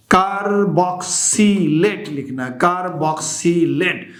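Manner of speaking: slow, syllable by syllable; teacher's slow, measured dictation. Real, not acted. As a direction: stretch the term out for note-takers. Dictating the name to students.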